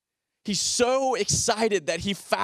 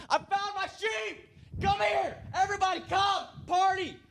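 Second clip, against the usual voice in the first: much higher, excited yelling out to everyone; joyful shouting; 12 semitones higher, 5 dB quieter than usual. Retold or imitated. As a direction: call the whole neighborhood over in delight. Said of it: "he just starts shouting".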